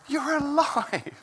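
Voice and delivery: high and slow, marvelling; overwhelmed joyful disbelief. Retold or imitated. Ian Wright seeing his coach alive, slow high marvelling. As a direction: let the wonder stretch each word. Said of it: "he said".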